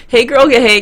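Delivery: put-on loud, sassy hey girl; sassy greeting. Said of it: "can be deadly".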